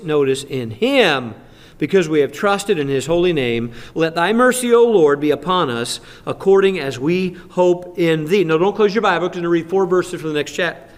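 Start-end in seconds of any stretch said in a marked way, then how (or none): 0.4-8.4 scripture reading. Acted. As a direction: proclaim the verse with weight. Reads scripture aloud.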